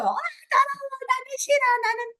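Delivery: put-on high, whining toddler refusing the potty; whiny crying child. Crying child who refuses the toilet, high and whiny. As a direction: wail it like a child who won't go. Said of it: "막 이러면서 우는 친구들도 있어요".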